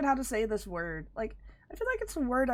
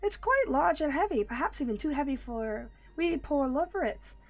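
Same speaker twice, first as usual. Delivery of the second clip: squeaky rabbit voice, much higher; high-pitched Loporrit voice; 5 semitones higher than usual. Acted. Rabbit creature urging the hero to hurry, high-pitched.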